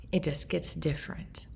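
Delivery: grieving daughter whispering a hard truth. Real, not acted. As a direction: let it drop to a whisper. Whispered line about grief.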